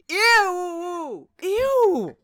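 high, loud disgusted ew. Real, not acted. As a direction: squeal with disgust. Disgusted by question.

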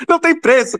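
riso agudo de deleite; rindo. Real, not acted. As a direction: ria alto antes de falar. Riso de prazer. (rindo com prazer)

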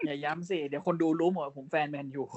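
playful fake sob; mock crying. Man United fan whining at his co-host, mock crying. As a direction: whine it as if near tears, jokingly.

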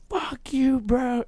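mock a kid's high-pitched taunt; retold battle cry. Friend's outburst before the kick.

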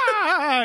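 high-pitched mock wail; mock scream. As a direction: cry out in hammed-up alarm. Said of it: "from just being like".

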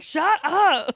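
retold shut-up, playfully fed up; exasperated retort. Acted exasperation at proposal hints.

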